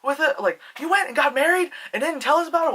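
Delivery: a hint of exasperated fatherly disbelief; disappointed father. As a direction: imitate a dad's incredulous reproach. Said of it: "he sounded like a disappointed father".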